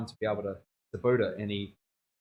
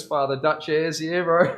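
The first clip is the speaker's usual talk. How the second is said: mock Dutch Opa; 6 semitones higher, 8 dB louder, slower than usual. Imitating Opa at family functions.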